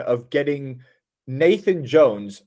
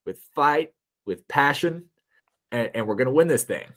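mock American pep talk. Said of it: "very American almost".

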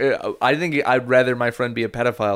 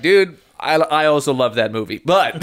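Chris Hansen voice. Retold or imitated. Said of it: "Chris Hansen, for a brief second, is like".

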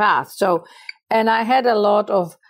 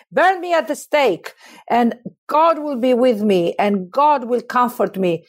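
impassioned, unbroken declamation building in intensity; dramatic monologue recital. Acted. Joan of Arc facing her accusers, dramatic monologue recital. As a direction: recite it as a condemned heroine defying her judges. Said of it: "I start to recite this monologue".

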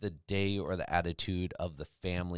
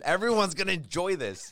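laughing; 10 semitones higher, 5 dB louder than usual. Real, not acted. Laughing at own generosity.

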